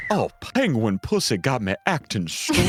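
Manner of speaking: slow Southern country lawyer drawl; country lawyer accent. Pretend. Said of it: "I would not do the country lawyer accent".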